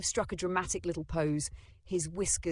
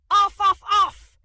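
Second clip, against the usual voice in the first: loud, high barking; dog bark; 17 dB louder than usual. A narrator's reading. Grandpa's laugh swapped for a bark, barking. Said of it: "Copper's bark came out".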